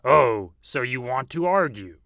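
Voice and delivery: loud mocking wolf. A narrator's reading. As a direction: challenge him like a bully wolf. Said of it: "said the wolf".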